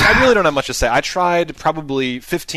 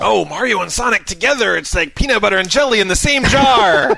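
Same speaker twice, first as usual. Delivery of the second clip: sarcastic hype; 5 semitones higher than usual. Acted. Sarcastic hype about bad game.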